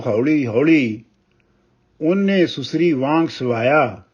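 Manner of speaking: measured, weighty reading of a Punjabi poem; ਕਵਿਤਾ ਪਾਠ ਦੀ ਠਹਿਰਾਵ ਵਾਲੀ ਅਵਾਜ਼; poem recitation. Acted. Poet recites poem Susri.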